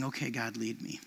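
quiet surrendering prayer; hushed prayer. Pretend. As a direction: breathe it to God, barely above a murmur. Preacher voicing a prayer.

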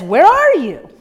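loud calling out where are you; God calling for Adam. Retold or imitated. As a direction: call out to the hiding pair.

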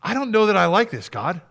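high, hesitant plea to God; acted-out reluctant prayer; honest complaint prayer. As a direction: voice doubts upward, haltingly. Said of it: "go to the Father with our grumbles".

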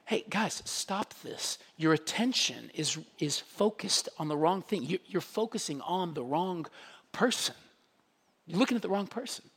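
gentle soft-spoken rebuke; hushed plea. Retold or imitated. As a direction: lean in and beg them quietly. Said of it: "But Paul is saying".

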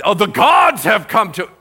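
high, loud, overawed cry; mock crowd reaction. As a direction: imitate an overexcited crowd crying out. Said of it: "why would you react like".

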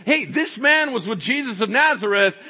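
high, projected call to bystanders; loud public accusation. Acted. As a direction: point him out to the crowd. Servant girl alerting the bystanders.

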